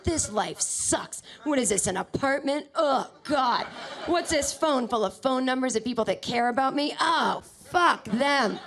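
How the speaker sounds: exaggerated exasperated complaining; mock disgust. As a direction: groan it out in hammed-up despair. Acted disgust at own real life.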